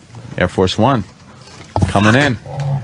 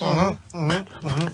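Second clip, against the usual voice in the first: hummed out the nose; closed-lip nasal uh-huh; mouth full; 11 dB quieter than usual. Shown as a demonstration. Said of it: "you're doing it out your nose".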